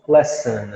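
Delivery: low "lesson" with reduced second vowel; correct English pronunciation. Shown as a demonstration. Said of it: "Lição". ("lesson" com final reduzido)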